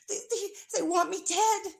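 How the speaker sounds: sarcastic impression of the ex-friend; mocking imitation. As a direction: parody her playing the victim. Mocking Tiffany's stream.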